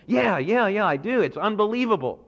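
disciples gushing over the temple; eager agreement. Retold or imitated. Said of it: "I can see the disciples going".

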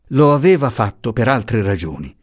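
usual speaking voice

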